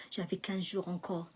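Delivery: soft unvoiced whisper; whispered relief to the listener; whispered aside. Real, not acted. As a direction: breathe it like a secret.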